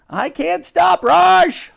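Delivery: high, loud call in passing; Dottie. A narrator's reading. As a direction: shout back while being carried away. Dottie calls while being carried off.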